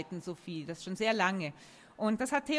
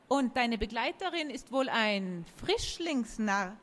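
talking tree. Acted. Oak voice in a story.

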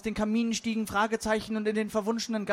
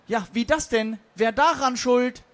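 higher, indignant call from the floor; 4 semitones higher, 5 dB louder than usual. Acted. The forgotten verb heckles the meeting, calling out. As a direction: call it out, punching the questions. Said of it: "rief das vergessene Verb".

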